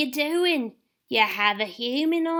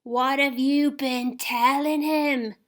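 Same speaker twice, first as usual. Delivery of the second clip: growled; 9 semitones higher, slower than usual. Acted. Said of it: "growled Lane".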